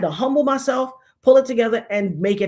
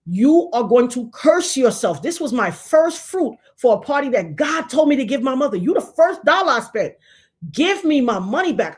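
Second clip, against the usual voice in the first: raised, louder heated warning; angry warning; 3 semitones higher, 3 dB louder than usual. Retold or imitated. Narrator warning the girl over the deposit, heated raised warning. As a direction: lay down the warning with heat. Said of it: "I said".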